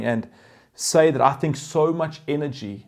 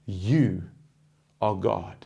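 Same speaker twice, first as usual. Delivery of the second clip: humble surrender; slower than usual. Pretend. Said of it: "falling on our face and saying".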